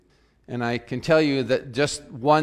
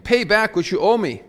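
a mock sharp demand, higher and louder; 8 semitones higher, 7 dB louder than usual. A narrator's reading. Servant choking his debtor, read as a mild angry demand. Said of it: "he demanded".

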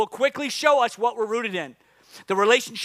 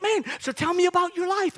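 lightly voiced breezy neighbor, higher; a higher, easy conversational imitation; chatty runner; 6 semitones higher than usual. Runner next to him making small talk, lightly imitated chattiness. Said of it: "He's like".

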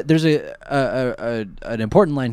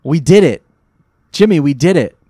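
excited cheer; 9 dB louder than usual. Real, not acted. Celebrating end.

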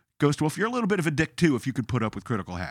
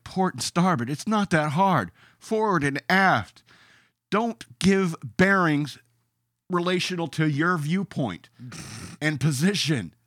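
exasperated lecture; 5 semitones higher, 4 dB louder, slower than usual. Retold or imitated. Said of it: "it's like".

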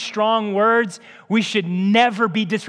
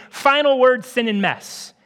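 cynical verdict; 4 semitones higher, 5 dB louder than usual. Pretend. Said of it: "what we're saying is".

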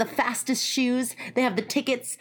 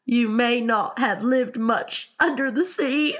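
tearful; 3 semitones higher than usual. Acted. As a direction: go on through tears, breaking into sobs. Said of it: "with tears running down his cheeks".

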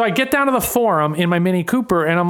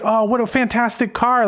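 higher, lightly accented mock Jamaican; faked Jamaican accent; 5 semitones higher than usual. Nurse praising patient's car, lightly faked Jamaican accent. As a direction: gush in a loose Jamaican accent. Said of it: "I'm not good with accents".

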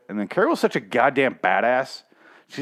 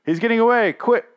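much higher, louder silly squeal; mock guards; 12 semitones higher, 5 dB louder than usual. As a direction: whine like useless henchmen. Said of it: "they're like".

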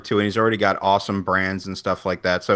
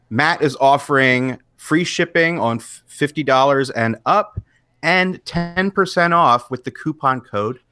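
higher-pitched salesperson pitch; retail voice; 3 semitones higher than usual. Real, not acted. Podcast host reading sponsor offer to listeners, retail voice. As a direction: deliver it like selling to a customer. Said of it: "You did the retail voice".

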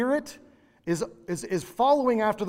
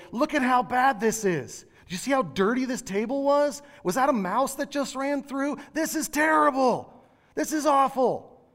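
much higher, whining gripe that climbs line by line; whiny restaurant complainer; 8 semitones higher than usual. Pretend. Diner griping to the next booth about bad service, whiny and high. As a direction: grumble to the stranger beside you, slowing on "This is awful.".

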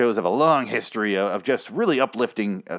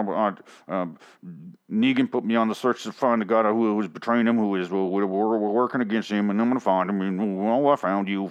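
mumbling Eugene. Retold or imitated. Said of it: "that mumble mouth".

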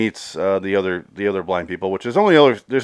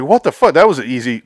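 high, louder burst of disbelief; incredulous outburst; 5 semitones higher, 6 dB louder than usual. Retold or imitated. Viewer reacting to the too-easy deal, incredulous outburst. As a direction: blurt it out, baffled. His stunned reaction, retold.

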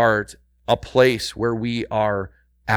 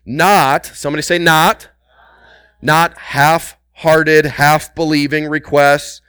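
louder, punchy preaching; rising fervent preaching; emphatic; 3 semitones higher, 5 dB louder than usual. Real, not acted. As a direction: lean in hard on not. Preacher builds emphatic call.

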